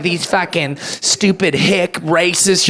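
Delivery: slow, sneering mock of a smug townie; looking down your nose, drawn out; snooty liberal. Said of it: "they start talking shit like".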